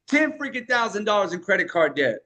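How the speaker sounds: punchy, emphatic hook delivery. Shown as a demonstration. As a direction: hit it hard like a hook. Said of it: "it's not what you say, but how you say it".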